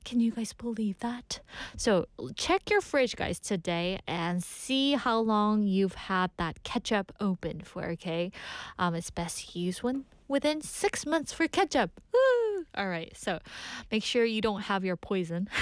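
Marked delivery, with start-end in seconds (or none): 0.1-1.4 shocked whisper. Real, not acted. DJ shocked by expiry facts. 12.1-12.7 high, loud whoop of delight; excited whoop. Real, not acted. DJ cheering on air.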